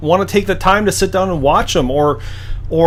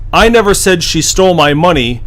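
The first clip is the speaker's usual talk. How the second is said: NEVER pressed hardest, falling after it; never said as the key word, tune falling after; stress on never. Shown as a demonstration. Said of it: "depending on which word you emphasize".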